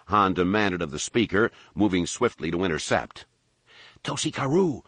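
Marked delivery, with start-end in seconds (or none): 4.0-4.8 yell. A narrator's reading. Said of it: "the albino yelled again".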